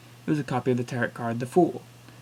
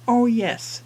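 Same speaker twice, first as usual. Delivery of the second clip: put-on old woman; 10 semitones higher, 6 dB louder than usual.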